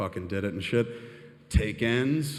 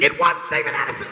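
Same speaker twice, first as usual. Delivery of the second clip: loud, fast blurted insistence; excited insistence; 3 semitones higher, 7 dB louder, faster than usual. Retold or imitated. Telling his friend, excited and loud. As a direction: burst out with it. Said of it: "I was like".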